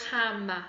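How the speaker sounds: "hammer" in two even beats; syllable counting. Shown as a demonstration. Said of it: "Count syllables".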